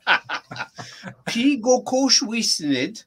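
slow, drawn-out syllables; slow repeat. Shown as a demonstration. Language teacher repeating a phrase for a student, slowly. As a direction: say each word slowly for a learner. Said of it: "can you do that once more slowly".

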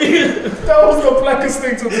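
laughing. Real, not acted. Host cracking up at answer.

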